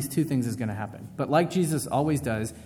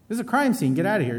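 stern order; 8 semitones higher, 3 dB louder, faster than usual. Retold or imitated. Cops ordering reporter out.

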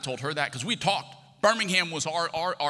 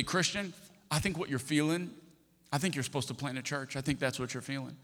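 earnest counsel; 6 dB quieter than usual. Retold or imitated. Retelling pastor's solemn advice.

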